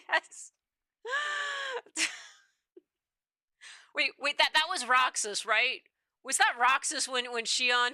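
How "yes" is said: high laughing squeal. Real, not acted. Cracks up at the game.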